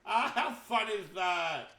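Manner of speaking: excited laugh into high squeal; thrilled by a fun surprise; delighted laugh. Real, not acted. Delighted by laser cauldrons.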